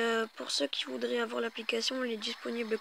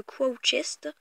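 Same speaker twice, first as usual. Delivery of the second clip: Quo Chest in a slow, louder, heavily French-accented English; clumsy English accent; 2 semitones higher, 5 dB louder than usual. Real, not acted. Gamer showing viewers his chest, slow mangled English. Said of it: "mon accent est magnifique".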